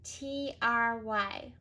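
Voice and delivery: T R Y letter by letter; careful spelling; spelled out. Shown as a demonstration. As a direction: spell it slowly.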